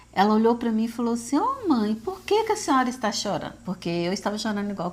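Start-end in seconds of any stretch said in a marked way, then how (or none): 1.4-3.5 voz mais aguda de filha, imitada; filha questionando. Retold or imitated. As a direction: imite a filha perguntando à mãe, em tom mais alto. Filha questiona a mãe que chora. (filha perguntando, em tom agudo)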